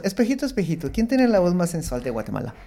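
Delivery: soft, sultry mirror question; femme fatale. Retold or imitated. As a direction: purr it to the mirror. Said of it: "se levanta todas las mañanas y dice".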